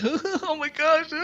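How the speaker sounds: high, slow, drawn-out put-on voice; mock shocked gasp. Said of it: "they're like".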